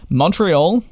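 announced over an imagined drum roll; dramatic reveal. Real, not acted. After asking viewers for a drum roll, a dramatic reveal. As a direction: land the big reveal with a rise. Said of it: "Can I get a bit of a drum roll".

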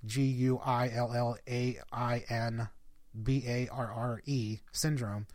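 G U I L L A I N, B A R R E, each letter said separately and slowly; spelled out letter by letter. Shown as a demonstration. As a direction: spell out Guillain-Barré one letter at a time, unhurried. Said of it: "if you just Google Guillain-Barré".

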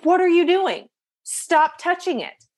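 high, sharp mock outburst; startled, snapping at her to stop; alarmed husband yelling at his wife; husband losing it. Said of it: "he loses his mind".

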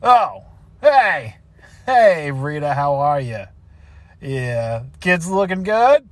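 hearty hello easing into small talk; put-on office cheer; fake friendly greeting. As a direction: feign interest in the family.

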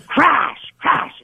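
mimicked crashing noises; imitated crashes. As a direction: voice each crash as a sound effect. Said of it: "you hear this".

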